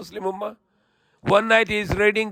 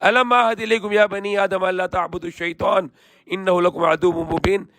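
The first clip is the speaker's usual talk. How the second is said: swift, even Quranic recitation; much faster than usual. Acted. Preacher reciting the verse to listeners in quick chant.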